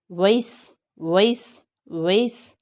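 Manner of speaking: American accent, वॉइस with a rising ey sound; American vase. Shown as a demonstration. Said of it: "या Americans". (American उच्चारण)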